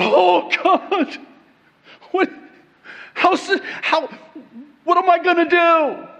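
high, loud mock panic; freaking out. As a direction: act out a frantic, flustered freak-out. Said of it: "I'm freaking out".

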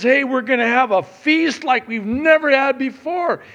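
loud, high, joyful father announcing a feast. Retold or imitated. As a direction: throw open the party for the lost son.

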